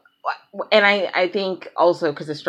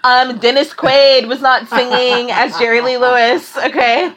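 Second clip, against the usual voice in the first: louder, playfully outraged correction; mock indignant rant; 3 semitones higher, 5 dB louder than usual. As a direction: set the record straight in mock outrage. Acts out own three a.m. rant.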